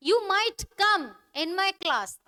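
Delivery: very slow, each word spaced; slow model sentence. Shown as a demonstration. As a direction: model it slowly. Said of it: "teacher models example". (धीरे धीरे उदाहरण)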